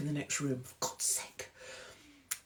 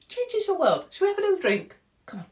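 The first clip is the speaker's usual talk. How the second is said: giddy. Acted. Giddy high-pitched enthusiasm.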